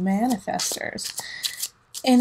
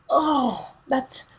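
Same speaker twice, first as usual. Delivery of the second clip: higher, knowing mock aha; lightly voiced knowing self-recognition; mock realization; 5 semitones higher, slower than usual. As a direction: catch yourself with a knowing aha. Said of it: "I'm like".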